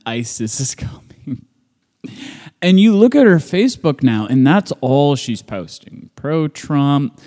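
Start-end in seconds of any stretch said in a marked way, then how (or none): 0.1-1.4 mock ominous whisper. Mocking scary video claim.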